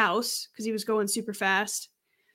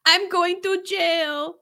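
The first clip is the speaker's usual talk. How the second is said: drawn-out, higher-pitched mock Hispanic accent; 6 semitones higher, much slower than usual. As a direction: slowly wail it in a bad Hispanic accent. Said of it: "I can't do a Hispanic accent very well".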